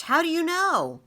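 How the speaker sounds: put-on high, loud astonished boy. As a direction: gasp the question in disbelief. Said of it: "Ben was astonished".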